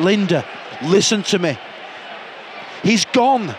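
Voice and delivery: hammed-up soap-opera pleading, rising in pitch; mock emotional drama. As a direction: firmly make a grieving woman let go. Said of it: "I'm better at emotional stuff".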